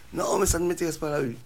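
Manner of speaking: high, loud shooing voice; angry lady at the door, yelling them away; chasing them off. Retold or imitated. Same lady refusing again.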